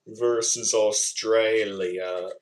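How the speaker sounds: slow, drawn-out Australian "Australia"; Australian accent. Shown as a demonstration. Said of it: "how they say it in the Australian accent".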